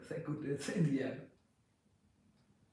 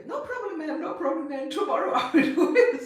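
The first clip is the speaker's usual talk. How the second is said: much higher and louder, laughing through the clerk's cheerful promise; imitating the airport clerk; 9 semitones higher, 9 dB louder than usual. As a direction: ham up the overly eager clerk, breaking into laughter.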